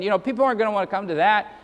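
rattled off fast, mock-sensible shrug; tossing off the excuse quickly; mock reasoning. Preacher mocking compromising churches, fast dismissive shrug.

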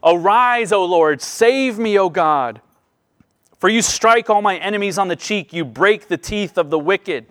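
loud, pleading cry to God; David crying out to God for rescue, loud and urgent. Retold or imitated. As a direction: call out the psalm like David crying for help. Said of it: "David cries out".

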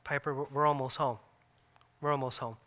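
softly retold soothing words; calm reassurance. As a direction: imitate a wife gently reassuring a child. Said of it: "my wife would calmly tell her".

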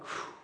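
soft sigh of relief out of nothing but breath; a breathed-out whew; relieved whew. Retold or imitated. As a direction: let the air out like the danger just passed. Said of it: "I remember being like".

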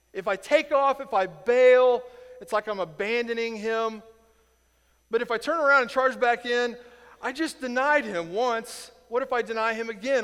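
anguished dilemma. Retold or imitated. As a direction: torn between fleeing and going back. Peter torn, inner voice.

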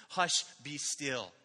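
put-on gentle hush to a child. Shown as a demonstration. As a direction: hush them tenderly, slowly. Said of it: "like we do with our children".

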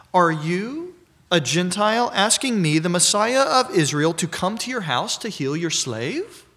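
mild incredulous challenge that slows on the last words; incredulous question. Acted. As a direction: voice Jesus in disbelief at the request. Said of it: "a statement of incredulity".

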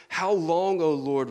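loud cry on How long, rising; loud lament. Acted. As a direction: cry out to the Lord in anguish. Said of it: "The psalmist writes".

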